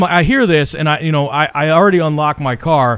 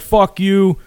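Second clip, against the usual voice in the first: retold yell; 6 semitones higher than usual. Joe swearing back at the dude over the receipt, retold yell. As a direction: throw it out like a retold shouted insult. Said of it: "we're all, we're yelling".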